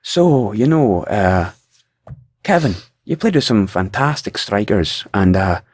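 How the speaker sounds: lightly put-on Irish accent; a hint of an Irish interviewer. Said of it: "I was trying to do a".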